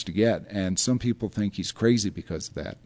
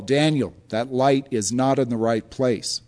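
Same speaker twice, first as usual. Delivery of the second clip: slow, louder mock reprimand; imitated yell; 3 semitones higher, 5 dB louder than usual. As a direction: call it out firmly like a director on set. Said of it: "Jim will yell".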